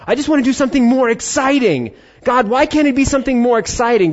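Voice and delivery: high, whining mock complaint; whiny complaint. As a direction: whine it like a bored kid begging God. Imitating a restless believer's complaint.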